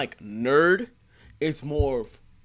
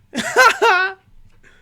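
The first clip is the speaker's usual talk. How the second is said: high, loud burst of laughter; 13 dB louder than usual. Real, not acted. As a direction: burst out laughing at his excuse. Laughs at the excuse.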